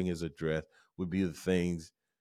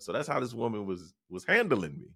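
usual speaking voice

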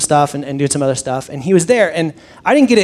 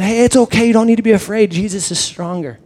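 put-on reassuring child; 4 semitones higher than usual. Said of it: "looked at him and said".

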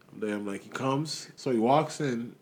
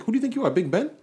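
much higher, loud indignant mimicry; heightened sneering quote of the client; mocking the rude client again; 12 semitones higher, 5 dB louder, faster than usual. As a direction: push the arrogance further up. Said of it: "He's like".

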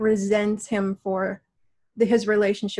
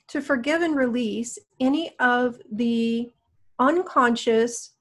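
guided meditation. Acted. Guides a healing session.

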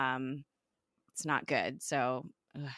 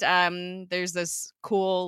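ordinary delivery

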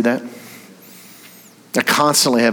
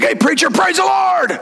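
cheesy Jerry greeting. Retold or imitated. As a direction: overdo a fake-pious hello, up high. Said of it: "he calls me preacher".

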